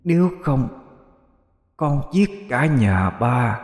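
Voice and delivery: put-on high, slow, creepy child demon; giggly sneering imp. A narrator's reading. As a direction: hiss a threat like a sneering imp. Imp threatens father. (giọng quỷ con rờn rợn, chậm)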